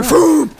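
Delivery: high, loud imitated whoosh; punchy mouth-made launcher sound; rocket launch noise. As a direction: voice the rocket firing with a big "foom".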